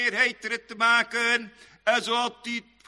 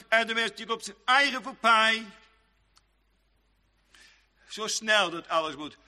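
usual speaking voice

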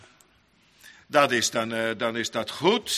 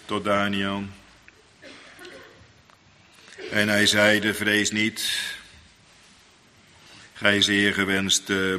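solemn scripture reading; 5 semitones lower, slower than usual. Acted. Preacher reads Daniel's comfort to the church, solemn. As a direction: lay each holy word down gently.

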